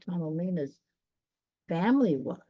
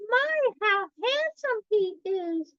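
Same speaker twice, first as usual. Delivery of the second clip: much higher, slow admiring voice; dreamy Thumbelina. Acted. Thumbelina admiring the handsome little king. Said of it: "thought Thumbelina".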